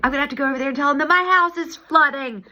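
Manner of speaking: a hint of wailing despair; mock dread. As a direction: blurt it in half-wailing panic. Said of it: "So I was like".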